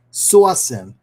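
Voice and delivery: slow New England "sourcing" with no r, like "saucing"; New England accent. Shown as a demonstration. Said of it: "I say it with my New England accent".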